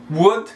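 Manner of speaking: "would" with a u sound and silent L; model pronunciation. Shown as a demonstration. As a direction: say "would" like "wud". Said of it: "lembrando que aqui".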